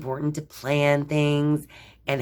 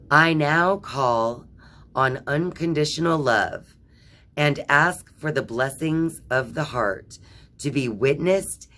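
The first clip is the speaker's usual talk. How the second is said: solemn affirmation. Acted. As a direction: speak it like a vow. Reads affirmation aloud.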